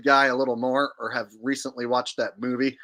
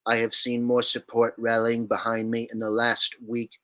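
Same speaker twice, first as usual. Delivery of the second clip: Trump impression; 2 semitones lower than usual. Shown as a demonstration. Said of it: "Trump impression, please".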